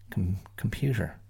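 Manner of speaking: computer said with a falling tune; stress drill. Shown as a demonstration. Showing students how to stress each syllable. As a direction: start computer plainly. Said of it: "stress each syllable in turn".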